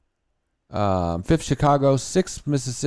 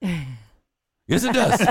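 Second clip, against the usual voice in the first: mock insistence; 5 semitones higher, much slower than usual. Mock quarrel over country songs.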